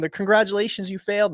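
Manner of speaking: high-pitched imitation of a cheering family; hyped, excited. Family congratulating him for failing, retold high excitement. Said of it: "they're all hyped and excited".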